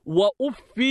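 وأف said "wa-uffii", ending in long ee; final long ya. Shown as a demonstration. Teacher showing students وأف as "wa-uffii", with the ya. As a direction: draw out the final "-fii" of وأف. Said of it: "بإثبات الياء".

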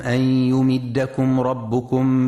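slow chanted tajweed recitation; Quran recitation. Acted. Radio tajweed teacher chanting the verse slowly for listeners. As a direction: chant the verse slowly, stretching the long vowels.

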